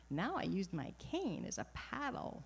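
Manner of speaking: proud, amused New York mom; mom's New York accent. Retold or imitated. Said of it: "which I like to mimic".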